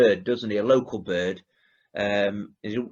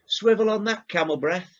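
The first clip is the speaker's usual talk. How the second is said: mock insult; 9 semitones higher than usual. Quoting Del's insult.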